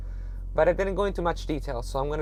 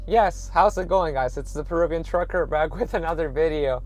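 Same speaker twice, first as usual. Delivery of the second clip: radio presenter voice. Pretend. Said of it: "I'm gonna have my radio presenter voice".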